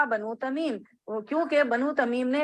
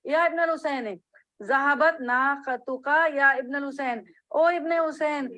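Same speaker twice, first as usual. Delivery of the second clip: lightly voiced caller, pitch slightly raised; 3 semitones higher than usual. A caller alerting Ibn al-Husain about his camel, lightly imitated calling out. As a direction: recite it as a mild call to someone. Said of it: "ایک پکارنے والے نے آواز دی".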